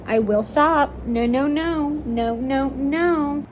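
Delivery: loud, stressing stop; loud threat. Real, not acted. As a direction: threaten to quit the book.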